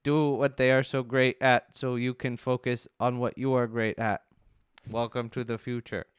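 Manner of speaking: even, measured robot monotone. Pretend. Reading homepage marketing to co-hosts, robot voice. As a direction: read it out like a machine, evenly. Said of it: "if I should continue in that voice".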